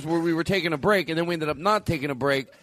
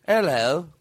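twangy fake Liverpool hello; exaggerated Liverpool twang. Shown as a demonstration. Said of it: "they do have a twang that we are exaggerating".

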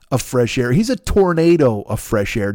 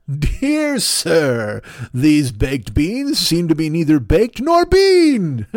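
pompous letter writer; 2 semitones higher, much slower than usual. Acted. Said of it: "writing letters to the editor".

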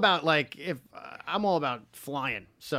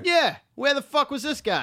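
outraged; 10 semitones higher, 3 dB louder than usual. Real, not acted. Outraged agreement.

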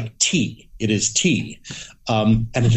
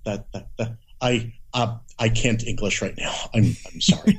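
flustered stammering; 3 semitones higher than usual. Retold or imitated. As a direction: play the dazed reader, jolted out of his book. Flustered self acted out when interrupted.

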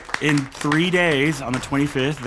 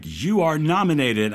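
reading out the announcement; 4 semitones higher than usual. Retold or imitated. Nominee recounting the festival's notice, grandly announced. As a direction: proclaim the nomination word by word. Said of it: "that's like".

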